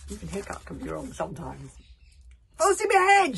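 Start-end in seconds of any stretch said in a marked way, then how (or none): 2.6-3.4 loud, much higher captain's shout; rousing full-voice yell; shouted command. Acted. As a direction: bellow the order across the deck. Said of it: "shouted Kamikaze".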